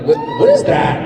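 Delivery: high-pitched incredulous "What, what is that?"; shocked question. Retold or imitated. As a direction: yelp it out in mock disbelief, laughing. Retold shocked question to driver.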